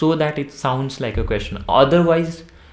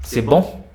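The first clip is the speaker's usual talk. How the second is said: BON lifted at the end, as a question; question intonation; 4 dB louder than usual. Shown as a demonstration. Teacher giving another example question, questioning rise on bon. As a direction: ask c'est bon with a rising bon. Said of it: "a question".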